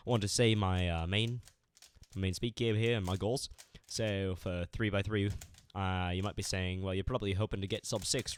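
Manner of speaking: hammed-up bad Australian accent; fake Australian accent. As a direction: talk like an American faking an Australian accent.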